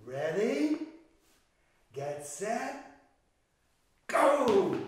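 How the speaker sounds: building to a loud shout on go; race starter. Acted. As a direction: call the start, then yell go.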